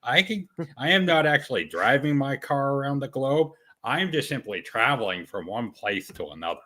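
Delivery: lightly attempted Casey accent; a hint of a put-on Casey accent, arguing the point. Casey arguing with a cop at a traffic stop, loose Casey accent. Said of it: "I can't do a good Casey accent".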